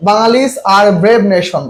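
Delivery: very slow, word-by-word reading; reading the wrong option. Shown as a demonstration. Teacher slowly reads a wrong answer option to students. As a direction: read each option aloud deliberately. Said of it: "দা নাই, তার মানে এটা আগে বাদ".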